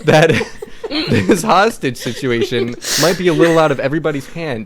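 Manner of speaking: smooth-talking pitch, cracking up; detective charming the cop, breaking into laughter; charming, laughing. Acted. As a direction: flatter him through giggles. Player rolling charm on cop.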